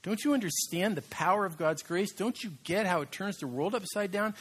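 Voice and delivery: mock-indignant plea to the librarian; rising inner rant. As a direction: insist in disbelief, building up. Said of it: "I'm like".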